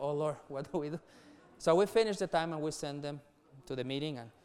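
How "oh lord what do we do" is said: a mild retold plea, laughing through it; half-amused, half-helpless; laughing helplessly. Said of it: "And we were like".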